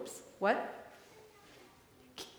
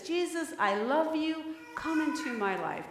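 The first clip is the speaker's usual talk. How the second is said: sincere prayer; 4 semitones higher than usual. Shown as a demonstration. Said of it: "Can you guys say that with me".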